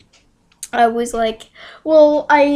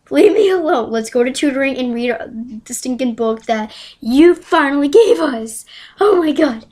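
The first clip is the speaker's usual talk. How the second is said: raised, exasperated outburst; acted-out "leave me alone" annoyance; fed-up retort; 4 dB louder than usual. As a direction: snap back, acting out being fed up.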